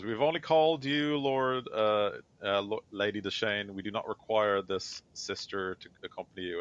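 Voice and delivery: mildly imperious lord, lightly acted; lightly voiced Stern. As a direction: lightly play a formal objection, pitch settling as it goes. Game master voices Stern objecting.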